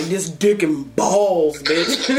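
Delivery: slow, laughing through it; slow giggling imitation; laughing mock quote. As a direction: spell it out while cracking up. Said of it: "I was like".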